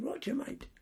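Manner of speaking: a hint of a high child's voice; lightly voiced Burmese boy. Storyteller repeating the jungle boy's words, high imitated child's voice. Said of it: "This is the Burmese boy".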